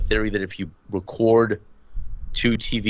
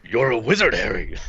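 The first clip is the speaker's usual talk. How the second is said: lightly voiced movie giant; half-serious impression of a film character; Hagrid. Podcaster quoting Harry Potter to his co-host, light impression. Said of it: "South Park doing Harry Potter".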